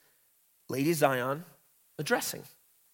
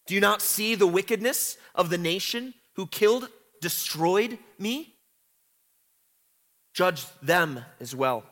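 cry for judgment; 2 semitones higher than usual. Retold or imitated. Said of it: "what is the cry".

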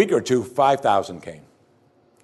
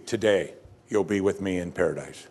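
lower, softer, tender promise; reassuring and soft; 4 semitones lower, 5 dB quieter than usual. Shown as a demonstration. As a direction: let it land gently. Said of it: "Jesus' statement is clear as could be".

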